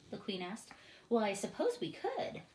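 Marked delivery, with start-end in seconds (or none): 1.1-2.4 grudging. A narrator's reading. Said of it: "admitted gruntedly".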